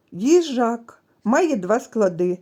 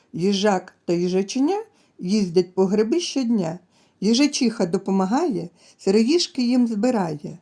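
put-on sing-song rhyme for little kids; reading a rhyme to children. Shown as a demonstration. Teacher reads a rhyme to children, sing-song. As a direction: read the little poem to the class. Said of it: "Дітки, послухайте віршик".

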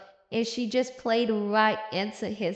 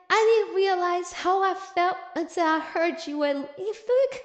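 higher-pitched, declamatory love declaration; loud mock confession; 4 semitones higher than usual. Woman begging the Duke to stay, mock-loud confession. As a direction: declare it for all to hear, hammed-up and pleading. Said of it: "she is saying all of this loudly".

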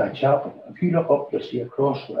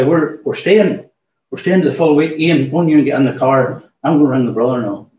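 raised voice; 6 dB louder than usual. Retold or imitated. Telling the manager we're staying the full week, loudly.

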